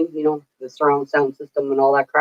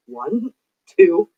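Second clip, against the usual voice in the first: sister's mock count-in; mock warning countdown; 3 semitones higher, much slower than usual. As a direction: imitate a bossy countdown, jumping high on the last counts. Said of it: "She went like that".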